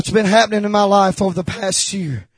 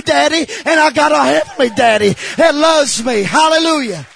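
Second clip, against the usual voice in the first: driving, rising sermon voice; emphatic, joyful testimony from the pulpit; fervent preaching; 3 semitones higher, 3 dB louder than usual. Real, not acted. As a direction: preach it with mounting conviction. Preaching at full force.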